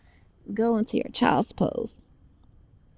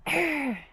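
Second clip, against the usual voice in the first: a firmer warrior growl; business growl; 5 semitones higher than usual. Shown as a demonstration. Teacher growls for the kids so they mean business. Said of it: "Oh, that was awesome".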